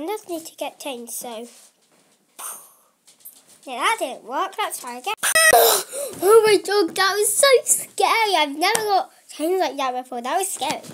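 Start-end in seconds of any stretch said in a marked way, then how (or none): 5.2-8.3 shaken, still catching a breath; real fright. Real, not acted. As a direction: gasp then breathless, louder and higher. Scared after changing clothes.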